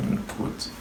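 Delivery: breathy mock modest whisper; whispered aside. Real, not acted. Bragging friend whispers an aside, unvoiced. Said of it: "I'm not supposed to be saying that".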